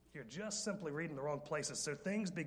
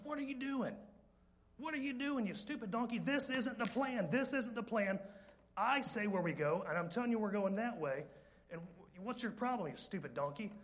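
higher, exasperated ranting at the donkey; angry Balaam; 5 semitones higher than usual. Retold or imitated. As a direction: berate the stubborn beast. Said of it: "hits the donkey and says".

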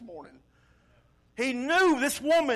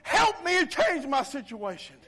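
raised, higher-pitched plea; shouting out to Jesus; 5 semitones higher, 3 dB louder than usual. Acted. Believer asking Jesus for help, raised cry. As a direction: call out with all your faith. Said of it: "just shout out to Jesus".

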